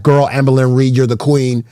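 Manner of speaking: mock hype girl gassing up. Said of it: "I'd be like".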